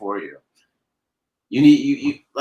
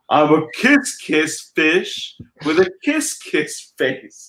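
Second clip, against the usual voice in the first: happy kissy fish; 3 semitones higher, much slower than usual. Acted. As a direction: draw out the new happy refrain. The happy new refrain.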